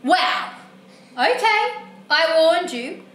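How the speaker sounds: indignant tattling, calling out for the parents; cranky book character. Acted. Book character reporting the reader to their parents, cranky. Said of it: "Look how cranky he is".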